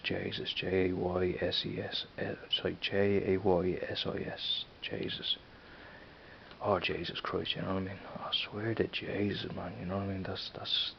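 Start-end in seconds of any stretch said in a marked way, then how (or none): 0.0-0.5 "Jesus" said Dublin-style as "Jayses"; Dublin pronunciation. Shown as a demonstration. Dubliner showing how locals say it, Dublin "Jesus" as "Jayses". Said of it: "In Dublin we say". 0.6-2.1 spelling out. Shown as a demonstration. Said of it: "In Dublin we say". 4.8-7.5 "Jesus" as a Dublin "Jayses"; Dublin pronunciation. Shown as a demonstration. Dubliner showing off local slang, "Jesus" pronounced "Jayses". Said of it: "that's Dublin E".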